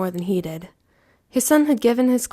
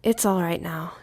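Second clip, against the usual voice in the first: soothing; 3 semitones lower, 3 dB quieter than usual. Acted.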